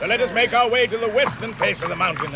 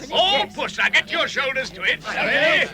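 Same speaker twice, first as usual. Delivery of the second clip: rallying calls; 5 semitones higher than usual. Acted. Leading a push on the door.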